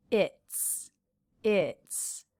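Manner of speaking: "it's" ending in a crisp voiceless ts; T S sound. Shown as a demonstration. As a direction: finish "it's" on a clear ts. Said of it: "with that T S sound".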